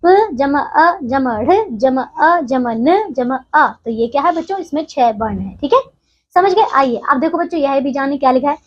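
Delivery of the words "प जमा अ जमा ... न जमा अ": slow, letter-by-letter spelling. Shown as a demonstration. Teacher to pupils, spelling the word slowly. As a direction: spell each sound out slowly for the children. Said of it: "और पढ़ना शब्द में बच्चों".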